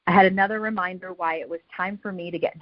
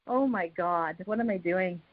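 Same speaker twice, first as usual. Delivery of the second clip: retold despair; 6 dB quieter than usual. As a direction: say it under your voice, as a despairing thought. Retold despairing thought while doubled over jogging.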